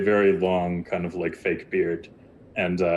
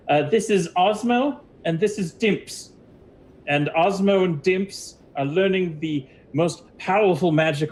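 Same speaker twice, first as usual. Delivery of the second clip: proud lizard wizard; 10 semitones higher than usual. Acted. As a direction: present your apprentices with high, puffed-up pride. Game master voices the wizard.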